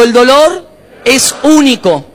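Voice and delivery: "El dolor es único" spoken slowly and firmly, every word weighted; slow group recitation. Real, not acted. Pastor has the church repeat the phrase, slow and firm. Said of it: "levantá la mano y decí conmigo".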